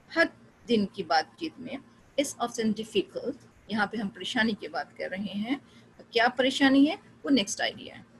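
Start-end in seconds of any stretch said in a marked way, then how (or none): 2.2-3.3 slow demo. Shown as a demonstration. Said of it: "say the sentences slowly and in different tone".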